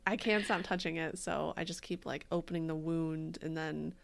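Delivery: slightly thick speech, sore tongue; words round a cut tongue; swollen tongue. Real, not acted. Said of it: "speech impediments, like, hitting hard".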